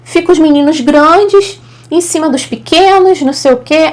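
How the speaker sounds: high, excusing mock voice of the lady; imitating the lady. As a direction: pitch her up as she explains herself away. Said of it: "Aí ela, ela". (imitação aguda da senhora se justificando)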